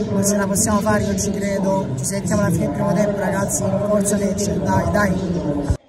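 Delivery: loud, fast stadium hype; rally the fans, loud; loud cheering. Real, not acted.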